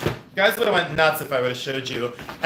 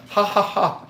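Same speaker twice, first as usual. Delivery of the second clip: higher mock nervous ha-ha; fake nervous laugh; 7 semitones higher, slower than usual. Imitating YouTubers who get nervous, mock laugh. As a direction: imitate a jittery YouTuber's chuckle. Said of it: "nervous laugh".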